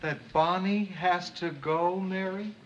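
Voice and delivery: dry mocking echo; sarcastic. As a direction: repeat it with heavy irony. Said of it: "without being sarcastic".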